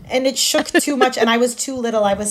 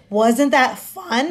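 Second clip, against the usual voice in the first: cheerful reassurance; much slower than usual. Retold or imitated. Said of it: "if she just went".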